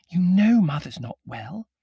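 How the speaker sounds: high, loud, slow reproach; accusing stage whisper. A narrator's reading. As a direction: scold in a forced whisper. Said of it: "accusing whisper".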